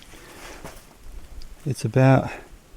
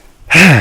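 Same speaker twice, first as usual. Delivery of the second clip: heavy breathless exhale; 5 semitones higher, 13 dB louder than usual. Real, not acted. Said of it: "Excuse me for being out of breath".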